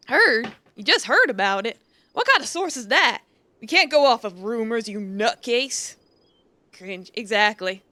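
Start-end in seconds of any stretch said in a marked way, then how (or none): 0.1-6.0 scoffing cowboy doubting the tip; skeptical outlaw. Acted. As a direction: push back like a suspicious gang boss. Voices outlaw questioning the source.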